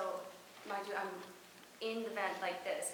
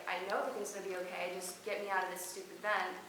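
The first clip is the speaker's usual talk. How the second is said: fast, exasperated snap back; girl stuck in the vent answers the minister, fast and fed up; impatient retort; faster than usual. Retold or imitated. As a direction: rattle it off, fed up. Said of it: "And I was like".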